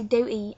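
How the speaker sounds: "duty" with no T, as "du'y"; dropped T. Shown as a demonstration. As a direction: skip over the T in "duty". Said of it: "we actually don't pronounce T".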